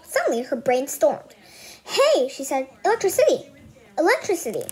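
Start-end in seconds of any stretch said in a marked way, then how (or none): 1.8-2.3 high, loud burst of discovery; sudden excitement. Acted. Ivy struck by an idea, excited high call. 2.8-4.6 high, loud triumphant cry; excited exclaim. Acted. Ivy announcing her big idea, loud and high. Ivy's brain storms an idea.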